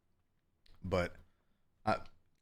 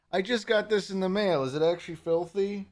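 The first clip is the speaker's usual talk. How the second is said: indignant surprise; 10 semitones higher than usual. Real, not acted. Denies shirt is filthy.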